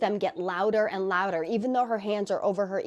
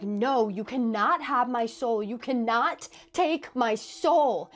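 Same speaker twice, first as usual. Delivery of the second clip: slow, louder, desperate refusal; defiant plea; 3 semitones higher, 5 dB louder, slower than usual. Retold or imitated. Girl refusing to give her soul to the devil, slow desperate defiance. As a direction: plead with the devil, half-shouting. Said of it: "This is where she's like".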